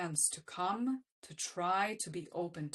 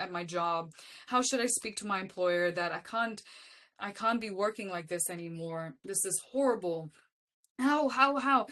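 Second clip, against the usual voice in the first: hammed-up begging, loud at both ends; mock desperate pleading; 3 semitones higher, 5 dB louder than usual. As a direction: imitate someone demanding answers in desperation. Retold begging partner for answers.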